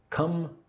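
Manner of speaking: "Comfortably" broken into three separate syllables, cum-fter-blee. Shown as a demonstration. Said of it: "I say it with three syllables".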